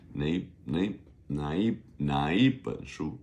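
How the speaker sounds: 哪一 blended into one gliding syllable; blended nei sound. Shown as a demonstration. Teacher drilling which book, 哪一 blended together. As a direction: run 哪 and 一 together, nearly nei. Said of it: "it kind of becomes a 哪一".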